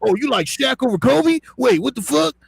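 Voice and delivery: very high-pitched, incredulous ranting; exasperated outrage. Real, not acted. Telling friends it's just opinion, exasperated high rant. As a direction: squeal your objections in disbelief.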